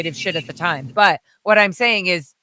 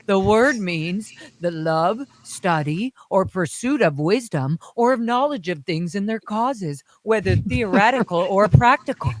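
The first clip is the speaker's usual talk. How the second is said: reciting Hubbard tape. Retold or imitated. Reciting Hubbard's tape in a faint English accent. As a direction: recite it like an old tape recording. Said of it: "I like that you change your accent at the end".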